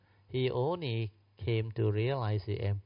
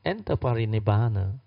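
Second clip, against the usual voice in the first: distraught Ananda; 8 semitones higher than usual. Acted. Grieving Ananda protests to Anuruddha, high and desperate. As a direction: voice rising in frantic despair. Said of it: "Ananda said".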